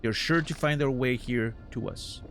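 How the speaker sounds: theatrical flea showman voice; grandiose flea circus showman. Acted. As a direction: bless them like a grand ringmaster. Voices flea master dialogue.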